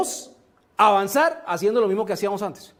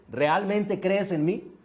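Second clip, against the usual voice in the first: slow, softer voice from above; calm questioning voice; 4 dB quieter, much slower than usual. Retold or imitated. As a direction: ask it slowly, testing his faith. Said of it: "la voz le vuelve y le dice". (voz lenta y suave que pone a prueba)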